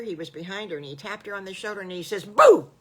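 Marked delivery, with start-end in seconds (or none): 2.2-2.7 sudden high shout to startle; loud boo. Acted. Little Bad Wolf startling Patty Pig from behind, loud boo. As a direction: jump out and scare her.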